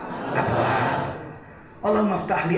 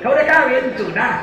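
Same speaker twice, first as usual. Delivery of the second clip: Javanese way of speaking; 4 semitones higher than usual. Retold or imitated. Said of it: "Orang Jawa kalau bilang banyak ditambah u".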